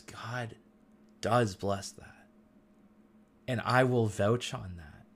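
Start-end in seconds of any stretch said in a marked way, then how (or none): 0.0-2.3 slow, whispered aside; a hushed, slowed secret. Real, not acted. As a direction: lean in and whisper it slowly. Hushed aside about God's blessing.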